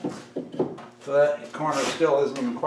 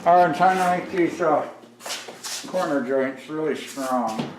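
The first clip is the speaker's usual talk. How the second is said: talking around a pencil; mouth full; 2 semitones higher than usual. Real, not acted. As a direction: pencil clamped in teeth. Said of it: "Sorry, I got the pencil in my mouth".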